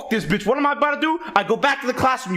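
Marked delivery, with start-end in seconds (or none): 0.0-1.2 put-on fed-up kid. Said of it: "So I'm like".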